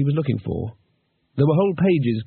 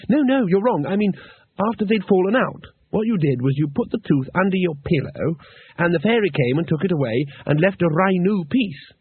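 Two Flower; 5 semitones higher than usual. Acted.

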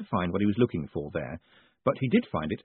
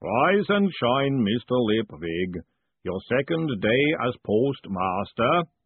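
golem voice; slower than usual. Acted. Golem speaking in narrated scene.

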